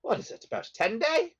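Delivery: put-on chatty British-accented prisoner. Fellow prisoner chatting with a newcomer from the surface, British accent. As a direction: muse aloud in a British accent. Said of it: "British accent".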